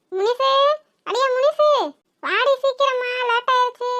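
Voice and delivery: calling a friend from the street. Acted. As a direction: shout for Munisu to hurry up. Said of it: "எவ்வளவு சத்தம் போடுறேன்".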